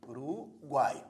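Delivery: slow split of U-ru-guai; Uruguai syllable by syllable. Shown as a demonstration. Teacher dividing the word for students, Uruguai in separate syllables. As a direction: break Uruguai into its syllables, slowly. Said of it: "ao dividir as sílabas dessa palavra".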